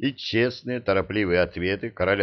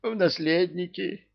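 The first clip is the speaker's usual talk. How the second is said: plaintive; 11 semitones higher than usual. A narrator's reading. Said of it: "жалобно шмыгнул носом".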